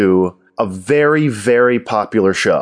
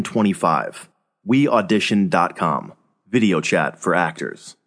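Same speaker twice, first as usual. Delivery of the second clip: brisk sponsor read; 4 dB quieter than usual. Acted. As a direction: read it like a podcast ad.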